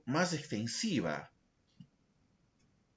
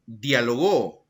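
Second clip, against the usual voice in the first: "dialogó" slow, with the weight on the final GÓ; stress on GÓ; 4 dB louder, much slower than usual. Shown as a demonstration. Teacher shows the class "dialogó" with final stress, slowly. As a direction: drag out "dialogó" and land on GÓ. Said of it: "Tenemos otro ejemplo".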